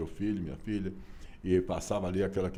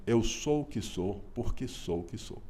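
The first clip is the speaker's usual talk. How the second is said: Popeye's motto; slower than usual. Retold or imitated. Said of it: "ele fazia".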